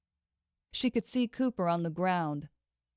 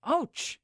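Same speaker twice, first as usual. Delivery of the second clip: pained moan; 9 semitones higher than usual. Acted. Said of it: "he moaned".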